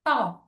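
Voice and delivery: "talk" with no L sound; silent L. Shown as a demonstration. Teacher sounding out quiz words, silent L in "talk". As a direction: say "talk" alone, vowel straight into K. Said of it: "Just ആ words എല്ലാം ഒന്ന് pronounce ചെയ്ത് നോക്കുക".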